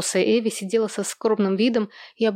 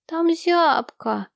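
put-on much higher, slow child complaint; complaining child; 9 semitones higher, much slower than usual. Little Sam complaining to his mother about the cold. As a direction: whimper it like a cold little boy. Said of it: "пожаловался малыш Сэм".

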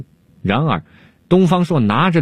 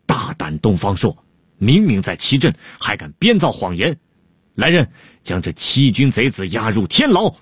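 angry shout. Acted. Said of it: "汉武帝真生气了，大喝了一声".

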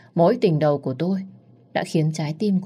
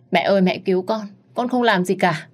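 crying plea; 4 semitones higher than usual. Acted. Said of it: "Tôi khóc như một đứa trẻ".

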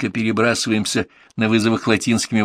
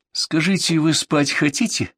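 ingratiating; 7 semitones higher than usual. Acted. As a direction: coax him gently toward sleep. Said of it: "вкрадчиво поинтересовался врач". (вкрадчиво и медленно)

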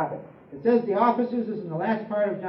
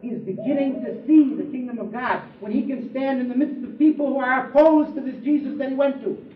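ordinary talk

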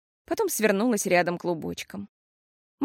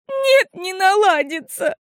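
much higher, louder, slow tearful cry; bursting into tears; 11 semitones higher, 7 dB louder, slower than usual. A narrator's reading. Girl bursts into tears at her mother's comfort. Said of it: "расплакалась Фиасоль".

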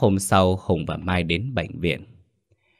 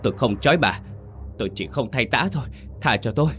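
higher pleading; terrified pleading; 5 semitones higher, faster than usual. Acted. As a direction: beg for mercy in terror. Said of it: "Bà Mến muốn gào lên".

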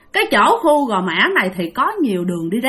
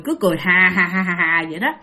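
low creepy laugh; 5 semitones lower, faster than usual. Retold or imitated. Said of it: "vừa chặn mà vừa cười".

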